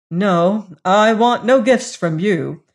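firm refusal. Acted. Hagar firmly refusing.

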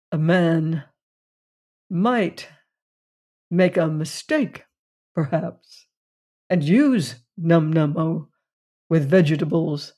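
slow, with long pauses between each word; big spaces between words. Acted. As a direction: weigh each word, leaving long gaps. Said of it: "with big spaces between his words".

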